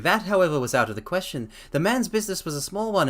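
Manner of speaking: reading a story aloud, lightly voiced Holmes. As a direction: read the detective's explanation steadily. Reads Holmes's explanation aloud.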